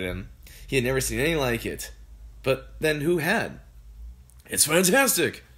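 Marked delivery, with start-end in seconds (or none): 4.5-5.4 higher, louder thrilled father; excited shout. A narrator's reading. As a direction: shout with delight. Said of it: "Mister Cranky shouted".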